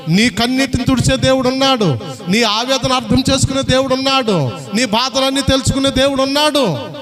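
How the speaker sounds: steady chanted sermon cadence; preaching litany. Acted. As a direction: hammer each line like a refrain. Rhythmic litany building to music. (లయబద్ధమైన ప్రసంగ ధోరణి)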